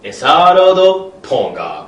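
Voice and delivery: slow, lightly foreign-sounding gibberish; a solemn closing pronouncement; gibberish expert. Acted. Gibberish expert concluding the recipe, slow and grave. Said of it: "an example of gibberish expert translation".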